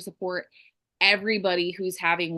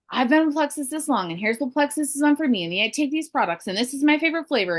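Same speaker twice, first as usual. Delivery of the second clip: mock sales pitch, higher voice; self-centred sales spiel; 6 semitones higher, faster than usual. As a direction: rattle on about yourself in a lifted voice.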